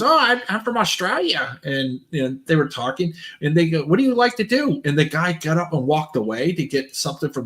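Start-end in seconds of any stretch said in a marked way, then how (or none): 0.0-1.6 funny voice. Retold or imitated. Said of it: "And he goes". 3.8-4.8 mock voice. Retold stream chat.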